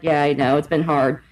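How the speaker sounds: low, glum ex; mock mopey. Quoting the ex admitting life's been hard, low and glum. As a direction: mope it out low. Voicing dejected ex.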